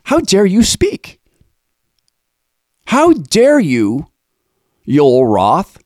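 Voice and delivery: slow, high, outraged disbelief; shaking with anger. Real, not acted. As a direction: drag out each word in fury. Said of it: "Lord Jesus, help me".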